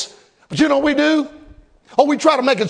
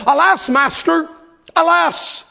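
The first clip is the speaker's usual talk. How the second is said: mock cry; 4 semitones higher, slower than usual. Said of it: "He cried and said".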